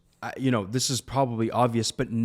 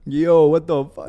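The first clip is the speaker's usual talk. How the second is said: shocked disbelief; 4 semitones higher, 6 dB louder, slower than usual. Retold or imitated. Coworkers reacting in disbelief.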